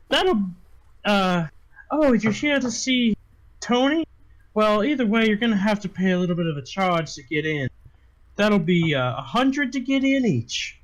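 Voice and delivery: brothel owner. Acted. Game master voices brothel owner.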